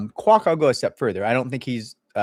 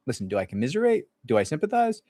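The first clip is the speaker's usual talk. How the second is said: ordinary delivery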